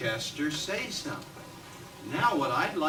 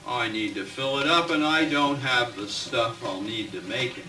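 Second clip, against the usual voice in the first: louder, clear reading of the witch; 3 semitones lower, 4 dB louder than usual. Shown as a demonstration. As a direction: say it out so all can hear. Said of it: "Mary the Witch said".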